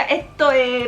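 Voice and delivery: Venezuelan 'esto es' with dropped s sounds; Venezuelan accent. Retold or imitated. Quoting a Venezuelan friend's habit, Venezuelan accent with dropped s. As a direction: imitate a Venezuelan, letting the s fall away. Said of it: "Él siempre decía".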